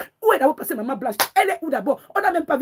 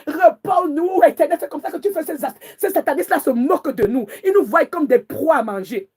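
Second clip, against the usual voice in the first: fervent prayer; 3 semitones higher than usual. Real, not acted. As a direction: cry out to heaven in fury. (prière enflammée, voix haute et forte)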